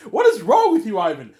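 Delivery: shouted high through a laugh; loud incredulous laugh; yelling through laughter at his advisor. Retold or imitated. Mock outrage at the accountant.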